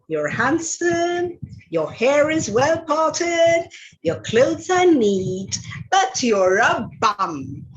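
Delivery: slow and honeyed, then drop it flat on bum; slow mock sweetness. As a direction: lay on the flattery before the punchline. Princess sweetly insults Ronald.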